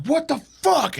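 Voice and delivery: high startled what the fuck; a sudden shocked squeal; shocked outburst. Retold or imitated. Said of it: "she was like".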